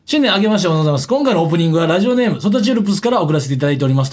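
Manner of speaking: mock stiff announcer read, rattled off fast; lightly mocking a tense radio opening; stiff rushed reading. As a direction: rush through it like a nervous stiff newsreader. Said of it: "カチカチで話".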